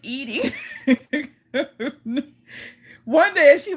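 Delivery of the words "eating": laughing. Real, not acted. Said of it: "Let me compose myself".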